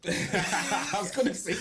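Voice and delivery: laughing. Real, not acted. DJ amused at co-host dismissing bassline, laughing. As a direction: let a real laugh stretch out the line.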